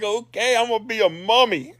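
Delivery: put-on high, giggling child voice; laughing kid. Boy agreeing to his dad's mummy plan, high and giggling. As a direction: giggle it out like a thrilled little kid.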